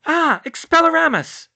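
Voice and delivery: high, forceful spell cry; urgent high-pitched shout. A narrator's reading. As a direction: cry the spell out loud, drawn out. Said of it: "she cried".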